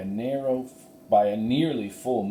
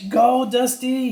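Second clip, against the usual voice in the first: loud, much higher cry; urgent shout; 7 dB louder than usual. Acted. Jack urging Dusty after the Mustangs, shouting. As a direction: yell it to spur the horse.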